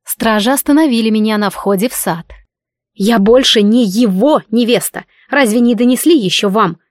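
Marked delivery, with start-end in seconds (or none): 2.9-6.8 shouted. Acted. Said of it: "прикрикнула я".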